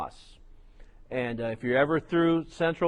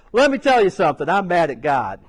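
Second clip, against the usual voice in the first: angry outburst; 2 semitones higher, 7 dB louder than usual. Retold or imitated. Preacher voicing the angry brother, mock loud. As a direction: spit it out like a bitter man. Angry man voiced in story.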